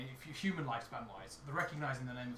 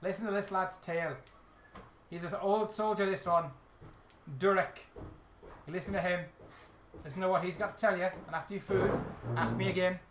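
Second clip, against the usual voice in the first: light Irish brogue; Irish accent; 3 semitones higher, 3 dB louder than usual. Acted. Irish character pointing lads to an old soldier, Irish accent. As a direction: keep a mild Irish lilt. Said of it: "I've got an old Irish now".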